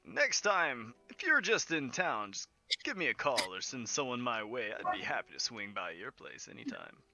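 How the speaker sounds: a touch of theatrical charm; doting showman Yolo, obliging. Acted. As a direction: offer it with a hint of flourish. Game master voices Yolo.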